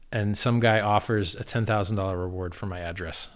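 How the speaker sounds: ordinary talk, nothing marked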